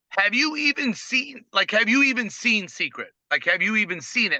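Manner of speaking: high-pitched, incredulous questioning; incredulous challenge. Retold or imitated. Retelling his challenge to prospects.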